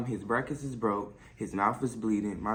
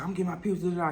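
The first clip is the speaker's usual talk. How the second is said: mocking high voice; 6 semitones higher, much faster than usual. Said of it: "he said".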